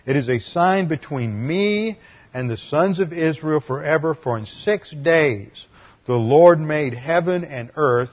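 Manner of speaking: loud, proclaiming Bible reading; Scripture reading. Acted. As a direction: declaim the verse to the congregation. Preacher reads Scripture aloud.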